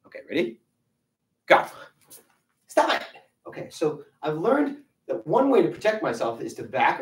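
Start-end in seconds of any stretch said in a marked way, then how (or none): 2.7-3.1 high, loud, firm stop; firm stop command. Shown as a demonstration. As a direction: shout it to halt someone. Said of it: "put that stop sign up, and say".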